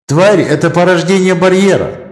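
high light female voice; Мэлла's voice. Acted. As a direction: voice inside his head. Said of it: "прозвучал в голове голос Мэллы".

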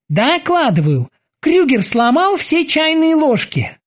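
high, eager sailor's voice; squeaky dutiful boatswain. Acted. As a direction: report to the captain like a keen young sailor. Boatswain Kiki reports.

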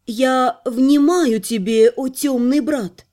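slow hollow sepulchral voice. Acted. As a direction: speak slowly as if from the grave. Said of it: "загробным голосом поведала".

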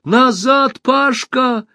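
high, loud warning shout. A narrator's reading. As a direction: call him back sharply. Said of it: "крикнула Алиса".

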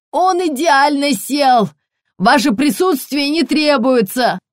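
insist, straining to get rid of her; loud, strained colonel's rebuff; flustered dismissal. A narrator's reading. Flustered colonel sends saleswoman away.

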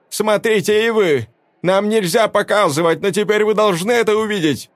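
high, loud call; woman calling the crowd; urgent appeal. A narrator's reading. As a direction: make them look. Velda addresses crowd.

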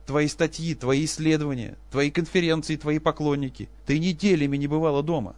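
high, loud reproach; husband reproaching his wife; bitter angry tirade. Acted. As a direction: hammer each grievance. Professor lists grievances.

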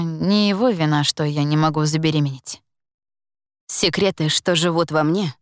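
usual speaking voice

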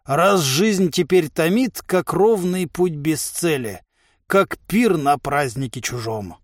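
slow, measured verse recital; pompous slow poetry; poetic declamation. A narrator's reading. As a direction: recite it slowly and grandly. Giant quotes Lermontov's verse grandly.

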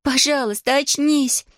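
very high pleading cry; desperate girl. Acted. Girl begging her dragon friend to wake up.

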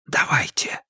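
hushed, voiceless prompt; Холмс whispering. A narrator's reading. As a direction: whisper the go-ahead. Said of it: "шепнул Холмс". (тихий шёпот, как команда)

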